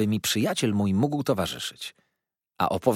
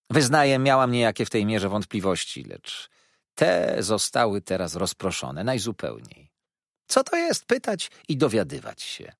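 put-on sweetly insincere, pitched up young woman; mock-naive lady. Miss Dartle teasing Mrs Steerforth, sweetly insincere. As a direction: feign innocent puzzlement. Dartle's long ironic speech.

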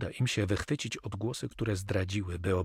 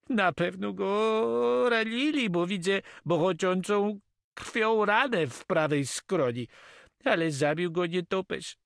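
high, drawn-out character voice; agitated Catalan; 11 semitones higher, 4 dB louder than usual. A narrator's reading. Catalan tells his master how the soldier died, agitated. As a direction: explain it in a high, emotional voice.

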